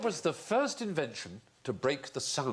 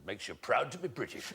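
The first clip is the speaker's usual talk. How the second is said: put-on soft, lightly slurred old statesman; a hint of an elderly leader's growly musing; Churchill; 6 dB quieter than usual. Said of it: "Churchill said".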